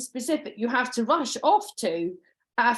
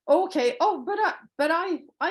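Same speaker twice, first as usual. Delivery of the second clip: polite smile; 7 semitones higher than usual. Shown as a demonstration. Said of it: "you say it with a smile on your face".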